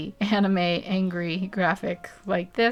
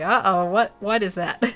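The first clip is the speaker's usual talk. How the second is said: mildly scared; 4 dB louder than usual. Pretend. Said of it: "someone who's just a little bit scared".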